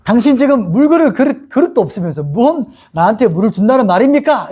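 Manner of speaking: retold frosty challenge, pitched high; cold retort. Samaritan woman to Jesus, who has no water jar, coldly. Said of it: "이렇게 또 쌀쌀맞게".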